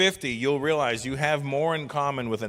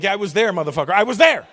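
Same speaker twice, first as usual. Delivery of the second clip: louder and rising to a yell on the last words; angry retort; 5 semitones higher, 9 dB louder, faster than usual. Retold or imitated. Comic snapping at a know-it-all youngster, building to a yell. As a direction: snap back, building to a shout. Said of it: "I'm like".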